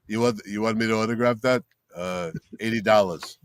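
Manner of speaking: low-pitched big-man voice; Lou Ferrigno impression. Celebrity quoting a fan his autograph fee, low big-man impression. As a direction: imitate a hulking celebrity, low and a little soft. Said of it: "when I do my Ferrigno impression".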